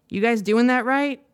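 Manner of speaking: narrated frustration, lifted and pressed a little; mildly angry. A narrator's reading. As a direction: read the challenge with understated anger. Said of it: "he asked angrily".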